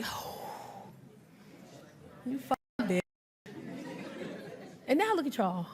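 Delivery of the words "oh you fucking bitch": hissed mock curse. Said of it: "we just be like".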